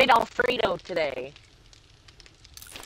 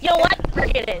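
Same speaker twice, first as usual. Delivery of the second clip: mock huffy outburst; 8 semitones higher, 8 dB louder than usual. Customer storming off.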